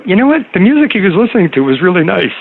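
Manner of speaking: high-pitched retold exclamation; mock amazement. Retelling the odd music after he drove away, mock amazement. Acted retort, amused in hindsight.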